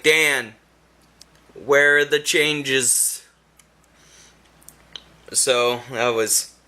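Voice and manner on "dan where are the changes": exasperated. Retold or imitated. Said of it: "I was like".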